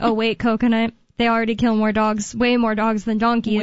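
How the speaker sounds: ordinary delivery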